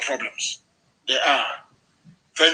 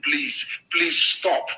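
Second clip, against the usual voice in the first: mock pleading; 3 semitones lower, much slower than usual.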